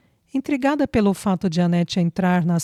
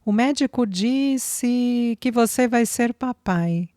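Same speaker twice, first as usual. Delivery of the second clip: higher, slow and tender, voice thick with feeling; sweet, choked with emotion; 5 semitones higher, slower than usual. A narrator's reading. Flávia telling Marcelo he will be a father, tender and choked. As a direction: deliver the news with sweetness, on the edge of tears. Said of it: "Flávia avisou com grande paixão e voz embargada de emoção".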